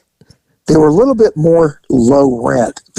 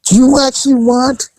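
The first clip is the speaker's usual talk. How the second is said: higher-pitched mock masseuse question; pointed offer; 8 semitones higher than usual. Masseuse repeating her offer, imitated pointed offer. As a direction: lift the imitated question high.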